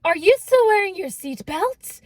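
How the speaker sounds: can't believe it; incredulous. Retold or imitated. Incredulous question to friend.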